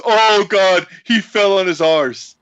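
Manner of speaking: Davey Boy Smith impression. Host mimicking a British wrestler's live outburst, light British accent. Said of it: "Davey Boy Smith goes".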